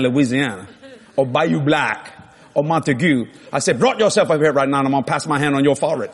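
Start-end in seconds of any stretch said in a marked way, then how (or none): 3.8-6.1 quick, louder mock Cajun invitation; playful Cajun accent demonstration; Cajun talk. Shown as a demonstration. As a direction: imitate how Cajuns talk, pushed out fast. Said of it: "understand how Cajuns talk".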